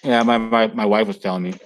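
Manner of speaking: talking while chewing; speaking through a mouthful of burger; mouth full. Real, not acted. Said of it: "Sorry, I was eating that burnt burger".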